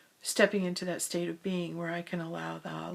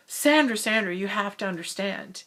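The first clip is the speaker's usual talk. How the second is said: pleading; 9 dB louder than usual. Retold or imitated. Retelling the man begging Sandra to understand, pleading. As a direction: beg her to understand him. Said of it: "he was pleading with me".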